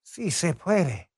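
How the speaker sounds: "puede" as "pweh-deh", slow and careful; correct Spanish pronunciation. Shown as a demonstration. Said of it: "my Spanish is not very good".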